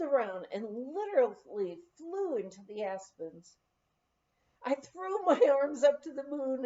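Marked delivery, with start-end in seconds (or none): 4.6-6.6 laughing. Retold or imitated. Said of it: "and laughed".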